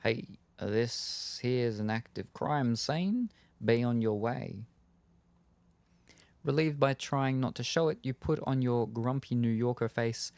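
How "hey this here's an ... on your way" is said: slow, drawn-out Brooklyn cop; thick Brooklyn accent. Acted. Cop dismisses a bystander at a crime scene, Brooklyn accent. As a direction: wave them off in a Brooklyn accent, without really yelling. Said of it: "yells in a thick Brooklyn accent".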